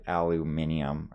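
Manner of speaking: "aluminium" as al-oo-MIN-ee-um; British pronunciation. Retold or imitated. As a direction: say "aluminium" with five syllables, stress on MIN. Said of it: "That's like a British thing".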